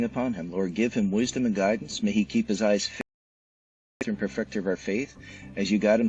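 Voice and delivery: earnest closing prayer, steady and unhurried; heartfelt prayer to end the interview; spoken prayer. Real, not acted. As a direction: pray it sincerely over your guest. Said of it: "let me pray".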